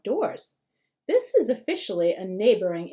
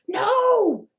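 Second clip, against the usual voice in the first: much higher, louder cry of no; yell; 11 semitones higher, 6 dB louder than usual. A narrator's reading. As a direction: neighbour boy seeing the computer in danger. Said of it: "Ollie, actually yells".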